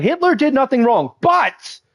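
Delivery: high, exaggerated pretend argument; mock justifying. Someone defending the indefensible to you, hammed-up high voice. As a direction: push it up high to a hanging BUT.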